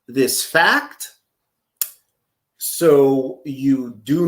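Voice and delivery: slow, deliberate mock lecture; condescending explainer. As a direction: spell it out slowly with stretched key words. Plays explainer answering J-Man.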